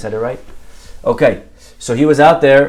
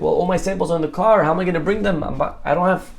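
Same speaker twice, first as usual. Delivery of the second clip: higher, rushed mock panic about the samples; 5 semitones higher, faster than usual. Manny panicking to Joseph about his samples, higher and hurried. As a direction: play the nervous guy fretting, fast and breathless. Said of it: "Now Manny started pa-, panicking again".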